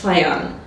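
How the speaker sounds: Fajan said as one word, not spelled out; demonstrated pronunciation. Shown as a demonstration. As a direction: show how the name Fajan is pronounced. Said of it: "but it's pronounced as".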